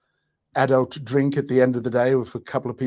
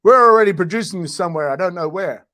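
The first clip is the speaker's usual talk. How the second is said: body talking; 3 semitones higher, 8 dB louder than usual. Acted. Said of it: "the body goes".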